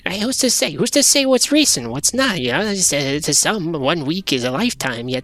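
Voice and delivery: hesitant, rambling creature with jumpy pitch; furtive little creature. Acted. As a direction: dither and stammer, puzzling over the question.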